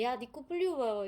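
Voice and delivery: brief imitated outburst, mildly heated; lightly mock an irritable snap; flaring up. Imitating the actor's Rogozhin flaring up, mildly heated. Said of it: "되게 막 버럭버럭 하는데".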